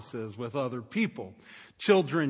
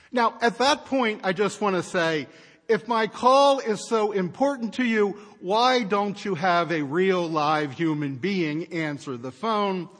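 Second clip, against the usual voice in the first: raised, indignant complaint; exasperated rant; 4 semitones higher, 5 dB louder than usual. Real, not acted. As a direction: vent the frustration, higher and louder. Ranting at the phone system.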